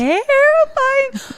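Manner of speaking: slow, high, stretched out; drawn-out. Real, not acted. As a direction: stretch the word way out. Drawn-out reaction.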